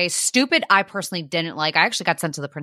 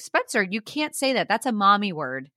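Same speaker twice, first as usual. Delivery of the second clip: high, soft sisterly telling-off; lightly voiced child correcting a brother; imitating little girl; 3 semitones higher, 3 dB quieter than usual. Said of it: "Cassidy even will be like".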